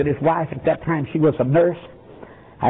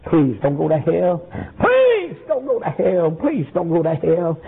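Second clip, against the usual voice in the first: pleading; slower than usual. Retold or imitated. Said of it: "holding on to him and screaming".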